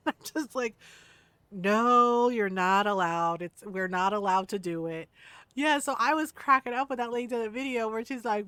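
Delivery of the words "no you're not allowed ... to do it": drawn-out loud no, then lower; slow, low mock-stern ruling; firm refusal. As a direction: lay down the rule in mock sternness. Mock-scolding friend over killing husband.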